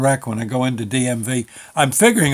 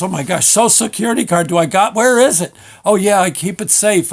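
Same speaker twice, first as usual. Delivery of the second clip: hurried, raised fretting over a lost item; acted panic; 5 semitones higher, 3 dB louder than usual. Man hunts for documents before the DMV, acted panic. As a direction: get flustered, rising in pitch and volume. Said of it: "in, in panic mode".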